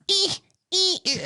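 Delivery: high squeaky mock moaning; a hammed-up high-pitched whimper; mock porn squeal. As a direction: squeal it in a silly falsetto.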